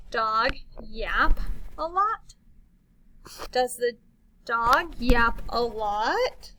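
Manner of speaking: slow rising question. Shown as a demonstration. Teacher turning an exclamation into a question, asking. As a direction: let lot climb. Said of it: "We don't know".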